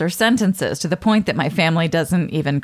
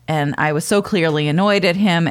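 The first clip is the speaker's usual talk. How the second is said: ordinary talk, nothing marked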